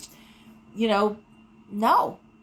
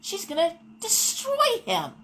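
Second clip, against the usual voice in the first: alarmed thought; 7 semitones higher than usual. Retold or imitated. Inner alarm watching boss.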